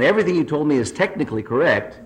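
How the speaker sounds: exasperated balloonist. Acted. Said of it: "says the lost man".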